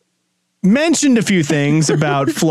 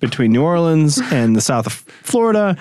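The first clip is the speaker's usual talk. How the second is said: voice cracking; 2 semitones lower than usual. Real, not acted. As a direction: voice cracks mid-sentence. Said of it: "your voice cracked there".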